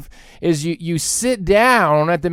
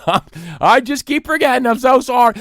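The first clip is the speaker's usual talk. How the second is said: mock apologetic therapist. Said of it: "They always say".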